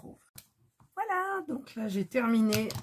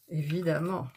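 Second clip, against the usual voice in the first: « Évidemment » dit dans un petit rire; répète « Évidemment » en riant doucement. Real, not acted. (« Évidemment » avec un rire amusé)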